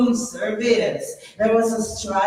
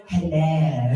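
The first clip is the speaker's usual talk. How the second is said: lightly put-on English accent, lower; 6 semitones lower than usual. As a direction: answer in your practised English accent. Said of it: "practice and speak with my repertory English accent".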